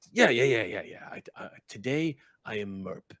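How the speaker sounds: eager goblin trailing into a whisper; excited then conspiratorial goblin hush. Acted. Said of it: "and he just goes".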